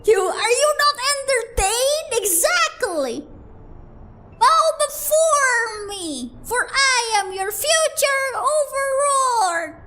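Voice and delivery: slow, loud, high villain proclamation; dark lord. Acted. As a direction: command them to bow, slowly. Streamer plays grandiose villain.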